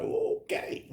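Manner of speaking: high, breathy, stunned okay; a dazed squeak as the drug hits; high airy okay. Retold or imitated. Reacting to his first hit of cocaine, a high breathy okay. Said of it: "this is my reaction".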